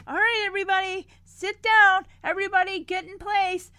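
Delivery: retold call to order; harried photo organizer. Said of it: "D J is like".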